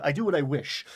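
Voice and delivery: lofty, declaiming the line; high fantasy poetic. Retold or imitated. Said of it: "way more high fantasy and poetic".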